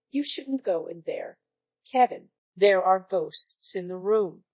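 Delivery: lightly mock-serious warning; a touch of grave storyteller. Teen warning little cousin about ghosts, mock serious. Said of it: "In my best serious voice".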